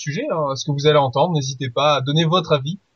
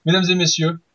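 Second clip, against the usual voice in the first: grand entrance announcement. Acted. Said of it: "je vais les appeler tous les deux ensemble".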